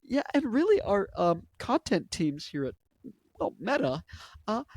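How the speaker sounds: halting put-on corporate voice, jumping high; Mark Zuckerberg impression. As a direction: mimic a hesitant tech boss, um by um. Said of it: "That's how he sounds".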